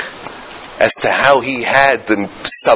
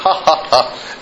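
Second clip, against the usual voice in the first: imitated laugh; 2 semitones higher, slower than usual. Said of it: "He started laughing".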